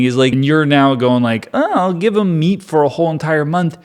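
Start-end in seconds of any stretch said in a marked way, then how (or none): 1.5-3.8 mock incredulous. Moses incredulously answers God's promise.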